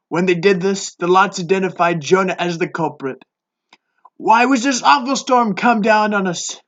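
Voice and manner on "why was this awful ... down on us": raised, demanding voice; demanding sailors. Acted. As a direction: demand it of him. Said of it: "they demanded".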